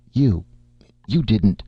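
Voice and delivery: a stunned, stammering accusation; startled. Acted. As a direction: catch yourself in shock. Startled by the sneeze.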